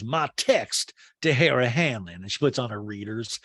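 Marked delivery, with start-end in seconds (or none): 0.0-2.2 slow, drawn-out put-on drawl; Sutton. Housewife in a talking head, slow drawled imitation. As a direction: mimic a housewife announcing a document. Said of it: "Sutton in a talking head goes".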